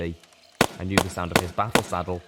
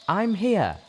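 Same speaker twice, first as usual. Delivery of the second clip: high, loud call across the clearing; 13 semitones higher, 6 dB louder than usual. A narrator's reading. Life Bloom announces his arrival, calling out high and loud. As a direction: shout to let them find you. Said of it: "Life Bloom called out".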